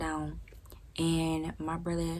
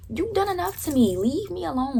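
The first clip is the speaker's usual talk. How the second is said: high furious yell; 12 semitones higher, 6 dB louder than usual. Retold or imitated. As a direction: pitch way up, loud and exasperated. Continuing rant at brother.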